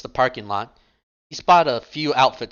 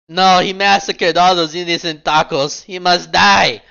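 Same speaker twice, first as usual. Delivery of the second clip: hammed-up furious outburst, higher and louder, very slow on must die; mock anger; 6 semitones higher, 8 dB louder than usual. Rook refusing Bishop over the survivor, hammed-up rage. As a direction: fake fury, he's acting. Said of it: "angrily marching over".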